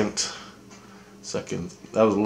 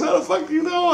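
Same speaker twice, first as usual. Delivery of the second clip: mock panicked shout. Imitating the girl he met freaking out at him, mock shriek. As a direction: play her panic, shrieking it out.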